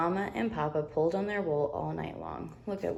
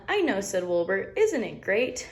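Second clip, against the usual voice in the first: delighted little lamb. Acted. Wilbur catchphrase.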